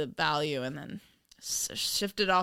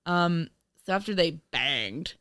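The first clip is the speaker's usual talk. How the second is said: sleazy radio DJ. Real, not acted. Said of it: "why do I sound like a sleazy radio D J guy".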